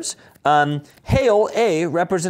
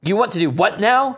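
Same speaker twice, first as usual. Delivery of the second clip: lightly voiced Hale, a bit higher; hint of nervous Buster; Tony Hale voice; 7 semitones higher, 5 dB louder than usual. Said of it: "Narrator voice".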